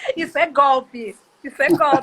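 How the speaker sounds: slow, tearful laughing to the point of tears.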